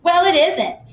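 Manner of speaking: high, loud indignant denial; indignant girl. A narrator's reading. Susie denying her story to the narrator, high and indignant. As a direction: snap back, offended.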